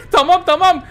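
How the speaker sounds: very high laugh into words; giggling high tamam. Real, not acted. Laughs at raging killer.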